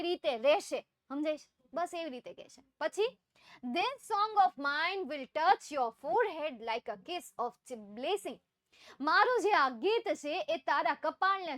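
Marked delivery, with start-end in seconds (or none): 3.6-8.4 slow poem recitation. Acted. Teacher reading the poem to her class, slow recitation. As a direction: read the poem line slowly and deliberately.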